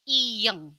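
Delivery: iyeng said clearly; letter name demo. Shown as a demonstration. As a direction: model iyeng. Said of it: "mereka kasih nama".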